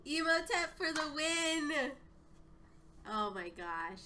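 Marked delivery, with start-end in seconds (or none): 0.1-1.9 high, loud victory cheer; triumphant. Real, not acted. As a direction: celebrate the win. Victory cheer after game.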